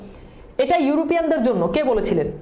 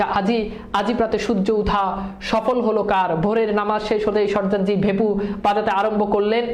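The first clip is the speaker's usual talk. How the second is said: reading aloud; 3 semitones lower than usual. Shown as a demonstration. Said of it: "কবিতার একটা line বলেছে".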